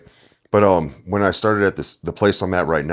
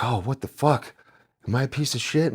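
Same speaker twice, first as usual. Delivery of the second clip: mock customer; 7 semitones higher, 5 dB quieter than usual. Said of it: "be like".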